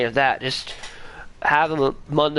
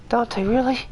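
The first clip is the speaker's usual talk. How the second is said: exasperated; 9 semitones higher than usual. Retold or imitated. Player's reaction quoted.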